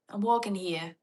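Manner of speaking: light New York accent at normal volume. Shown as a demonstration. Australian checking an accent with viewers, mild New York accent. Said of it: "Isn't that New York?".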